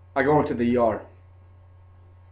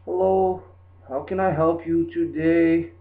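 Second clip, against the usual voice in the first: higher, slow put-on voice mocking the customer; 4 semitones higher, slower than usual. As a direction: imitate the clerk's mocking greeting, drawn out. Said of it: "that's what this dude did to me".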